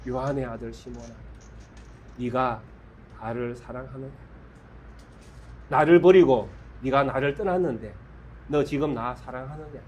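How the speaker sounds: 낮고 작게 다정히 묻기; 떠난 제자에게 부드럽게 묻듯이; tender question. Acted. 예수님이 베드로에게 묻는 장면. (떠난 제자에게 조용히 묻는 예수님)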